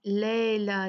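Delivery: "लैला" with a single long "ae" vowel; "लैला" said as "lae-laa"; wrong flat vowel. Shown as a demonstration. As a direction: drop the y glide in "लैला". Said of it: "नहीं होगा".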